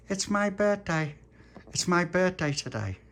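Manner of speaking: put-on high, slow child announcement; hopeful birthday boy. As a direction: say it high and slowly, hinting for attention. Tony announces his birthday.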